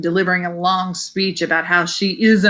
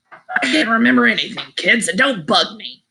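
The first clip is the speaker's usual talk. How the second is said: put-on crabby old man; 3 semitones higher than usual. War veteran brushing off kids' questions, crabby old man voice. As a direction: bark it like a grumpy old man, mildly. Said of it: "he barks in his best crabby old man voice".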